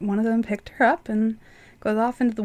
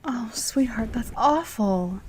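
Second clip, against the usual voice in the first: whisper; slower than usual. Acted. Wife comforting husband at night.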